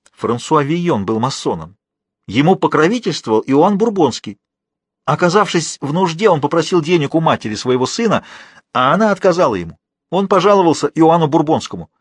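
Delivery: a hint of an anxious prisoner telling secrets; agitated prisoner. (слегка повышенный голос взволнованного узника)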